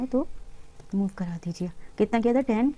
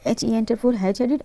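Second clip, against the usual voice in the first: slow, letter by letter dictation; spelled-out shortcut; much slower than usual. Shown as a demonstration. Teacher dictating a shortcut to students, slow and spelled out. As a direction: spell the command out slowly for students. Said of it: "dictating a keyboard shortcut".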